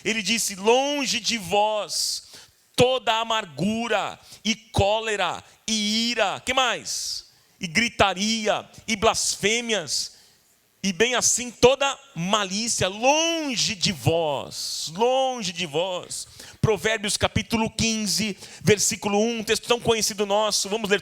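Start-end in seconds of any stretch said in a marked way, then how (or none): 0.5-6.4 slow, drawn-out declaimed scripture; scripture reading. Acted. Preacher reads Paul's verse to the congregation, slow solemn declamation. 7.6-16.3 slow, drawn-out declaimed scripture; scripture reading. Acted. Preacher reads Paul's verse to the congregation, slow solemn declamation.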